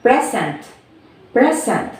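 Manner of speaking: "present" said with PRE stronger, then a fall; first-syllable stress. Shown as a demonstration. Teacher repeating the stress example, "present" stressed on PRE. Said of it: "we stress here from the pre".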